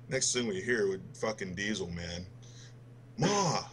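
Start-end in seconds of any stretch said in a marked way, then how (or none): 3.2-3.6 high retold call across the house; mock call out to mom, much higher. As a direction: yell up the stairs for Ma, pitched high. Diesel calls his mom mid-game.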